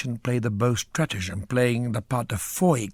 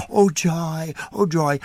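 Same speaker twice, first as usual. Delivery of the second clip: mock joyful cry; 5 semitones higher, 3 dB louder, slower than usual. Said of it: "left me there all on my own, going".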